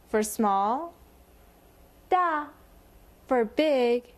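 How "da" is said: "da" starting high and falling; fourth tone. Shown as a demonstration. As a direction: drop the pitch on "da". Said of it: "it's the fourth one".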